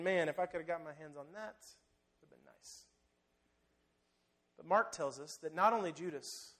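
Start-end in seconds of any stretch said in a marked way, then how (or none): 0.0-2.8 greedy inner thought. Acted. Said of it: "he was thinking".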